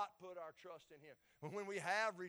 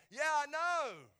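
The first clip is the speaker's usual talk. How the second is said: slow, louder and higher, stretched in weary defeat; drawn-out exasperated yeah I know; 7 semitones higher, 10 dB louder, much slower than usual. Retold or imitated. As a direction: drag it out like you've heard it a thousand times. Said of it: "And I go".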